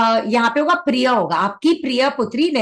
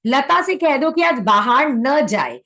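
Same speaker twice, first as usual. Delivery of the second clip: slow reading; slower than usual. Shown as a demonstration. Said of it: "तो इसका क्या होगा".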